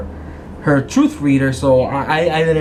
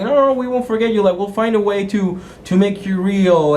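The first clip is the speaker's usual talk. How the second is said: high, urgent protest, pitched up; eager pleading; 5 semitones higher than usual. Acted. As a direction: beg him not to go, up high. Players plead with fading NPC.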